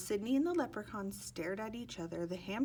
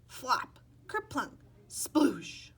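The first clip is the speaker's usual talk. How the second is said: whispered splash sounds; 5 semitones higher, 7 dB louder, much slower than usual. A narrator's reading. Sound effects in story.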